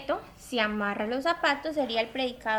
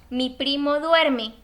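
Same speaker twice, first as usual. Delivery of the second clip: slow, louder, every word laid out; slow example read; 6 dB louder, much slower than usual. Shown as a demonstration. Teacher showing the example sentence, slow and louder. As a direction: dictate the sentence slowly to the class. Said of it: "le puedo decir a usted".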